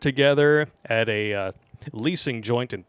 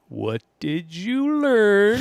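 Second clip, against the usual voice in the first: drill sergeant voice; 9 semitones higher, much slower than usual. Pretend. Reading listener name, mock drill voice.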